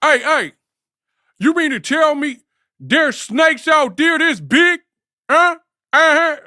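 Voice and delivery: imitating Ice Cube's high loud shout; Ice Cube in Anaconda. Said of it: "Sounded straight out of South Central".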